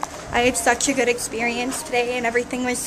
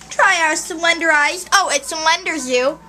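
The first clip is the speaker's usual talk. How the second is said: higher, drawn-out sales pitch; half-joking ad read, slow and raised; mock commercial pitch; 4 semitones higher, 4 dB louder than usual. Girl pitching a drink in a failed commercial, mock sales voice. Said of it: "this is a fail of a commercial".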